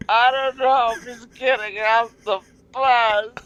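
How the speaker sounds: high, slow, fretting woman; high-pitched worried reality star; anxious Danielle. Retold or imitated. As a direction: worry he won't show up. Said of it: "and she's like".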